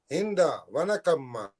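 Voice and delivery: slow put-on South Indian accent. Man repeating his impression, slow South Indian accent. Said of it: "That's an impression of a South Indian man".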